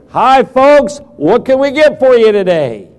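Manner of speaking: perky waiter greeting. Retold or imitated. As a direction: greet the table like an eager waitress. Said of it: "they say".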